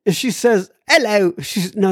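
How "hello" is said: failed attempt at an Irish accent; higher, badly faked Irish greeting; mock Irish brogue. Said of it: "what's a brogue".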